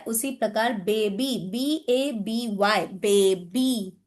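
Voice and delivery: बेबी के अंत में लंबी ई; बेबी, धीमे से, आख़िरी ई खींचकर; demonstrating baby. Shown as a demonstration. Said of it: "Y is giving the long E sound". (बेबी को धीरे, लंबी ई के साथ)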